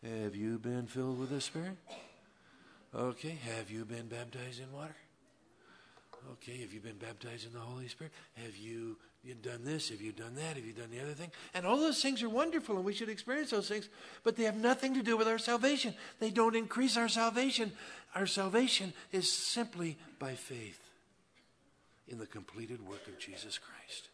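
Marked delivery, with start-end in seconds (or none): 0.0-11.3 a hint of a nosy checklist asker; mock church questioner. Pastor imitating churchgoers quizzing others, lightly voiced. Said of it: "we ask people questions". 11.5-20.8 loud, high sermon emphasis; full-force preaching. Real, not acted. Pastor preaching to the congregation, loud and high.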